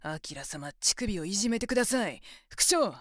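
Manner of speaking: voiced and rising to a loud shout; mock begging that ends in a loud cry. Shown as a demonstration. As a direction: show him how loud to beg. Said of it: "もっと大きな声で".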